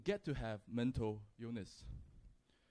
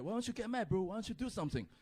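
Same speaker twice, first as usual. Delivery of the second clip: higher-pitched indignant friend; retold urging; 6 semitones higher, faster than usual. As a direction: imitate a friend egging you on. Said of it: "he shouts back".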